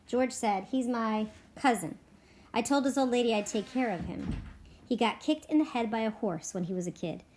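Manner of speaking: lively read-aloud with voiced ranch characters; story narration. A narrator's reading. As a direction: read it to the class like a story, giving each man a voice. Reading continues to chapter scene.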